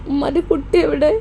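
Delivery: mother asking through tears, voice crying. Acted. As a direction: choke up on the question, crying. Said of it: "ഉമ്മ എന്താ കരയണത്?".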